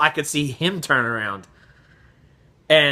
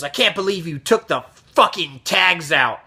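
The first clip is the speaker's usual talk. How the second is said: mild mock angry customer; retold anger; 2 semitones higher than usual. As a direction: imitate an irate accusation, held back. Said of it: "he gets even louder".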